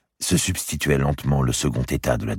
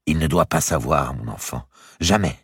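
exclaiming; 3 semitones higher than usual. Acted. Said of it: "s'écria madame de Bouville".

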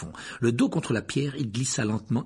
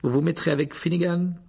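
a hint of a cold professor; 6 semitones higher than usual. A narrator's reading. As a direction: hand out orders with icy calm. Snape assigning pairs.

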